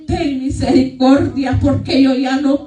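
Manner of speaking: slow, retold plea to the Lord; pleading prayer. Woman tells how she asks the Lord for mercy, slow pleading prayer. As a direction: plead slowly, as if recounting a prayer. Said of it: "yo le digo al Señor".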